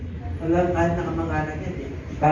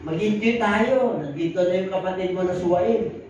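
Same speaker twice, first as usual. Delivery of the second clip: pleading father; 2 semitones higher than usual. Acted. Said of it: "nakiusap pa yung tatay".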